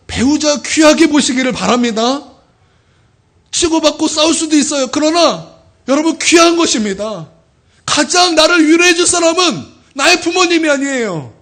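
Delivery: loud, high urging from the pulpit; fervent preaching. Acted. Pastor exhorts congregation to treasure spouses, fervent loud preaching. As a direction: preach it with rising force.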